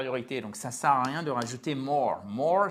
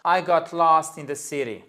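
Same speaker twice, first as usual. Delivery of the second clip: American-style English accent; 2 semitones higher, 5 dB louder than usual. Shown as a demonstration. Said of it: "en perspective". (accent américain, un peu plus fort)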